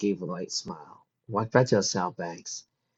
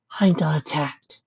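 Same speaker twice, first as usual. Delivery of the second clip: slow ominous; 7 semitones higher, slower than usual. A narrator's reading. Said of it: "the two finished".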